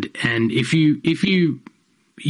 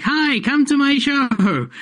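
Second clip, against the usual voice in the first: put-on high, slow baby voice. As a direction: coo it like a baby. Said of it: "a baby voice going".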